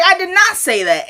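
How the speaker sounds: high-pitched mock protest; imitating an indignant objection; indignant denial. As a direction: deny it high and emphatic. Retold playful argument, she denies it.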